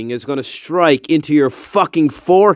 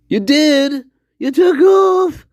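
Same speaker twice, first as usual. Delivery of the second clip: excited shout; 12 semitones higher, slower than usual. Real, not acted. Streamer cheering Tilly for taking a day off, excited shout. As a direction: cheer her on at full volume.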